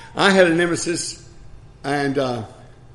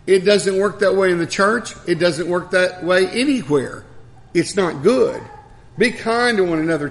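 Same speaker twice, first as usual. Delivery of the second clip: raised-pitch, emphatic sermon delivery; emphatic preaching; 4 semitones higher than usual. Real, not acted. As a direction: press each phrase home to the congregation.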